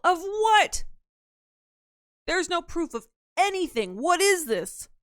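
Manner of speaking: high, loud squeaky protest; squeaky defensive voice. Pretend. Denies the video proof.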